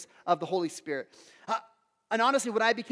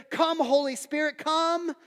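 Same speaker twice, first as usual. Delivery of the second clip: slightly raised, calling prayer; mock invocation; 5 semitones higher, slower than usual. Preacher imitating the overemphasis camp, mock invocation. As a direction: lightly imitate an over-eager worshipper calling out. Mimics over-eager charismatic prayer.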